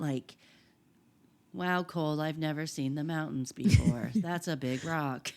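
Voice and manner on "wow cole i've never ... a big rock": mock dead-faced flat monotone. Acting out how Casey talks to Cole, imitating Casey's deadpan monotone. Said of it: "like dead-faced, monotone".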